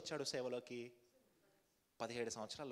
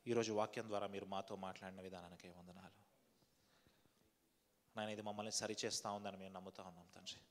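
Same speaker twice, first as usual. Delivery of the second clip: steady, rhythmic pleading prayer to the Father; fervent prayer. Real, not acted. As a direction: pray aloud for the whole church. Leads congregation in prayer. (తండ్రిని వేడుకుంటూ ఉత్సాహంగా ప్రార్థన)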